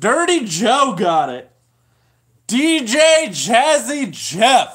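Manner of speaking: very slow, stretched-out, drawn-out shout. Announcing who got the trivia answer right, yelling. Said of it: "Sorry if I'm yelling".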